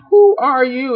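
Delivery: high, put-on witch voice; hammed-up high-pitched demand; imperious witch. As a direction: challenge the intruder as a comic witch. Acted witch confronts Edmund.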